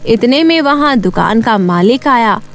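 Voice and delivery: ordinary delivery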